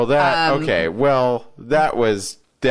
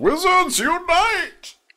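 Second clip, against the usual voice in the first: very high, grand wizard-style voice. Showing how the game title should be said: said like a wizard. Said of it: "You have to say it like that".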